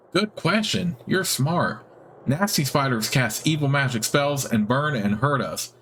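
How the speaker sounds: delighted little creature; squeaky spider. Acted. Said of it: "squeaky, high-pitched voice".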